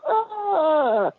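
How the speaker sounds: high short dying scream; death scream. Shown as a demonstration. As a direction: scream like you're torn in half. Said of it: "death scream".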